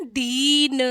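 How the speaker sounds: दीन with a drawn-out "deeen"; slow long-ee दीन. Shown as a demonstration. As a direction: stretch the vowel of दीन. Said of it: "बड़ी की मात्रा लगी है".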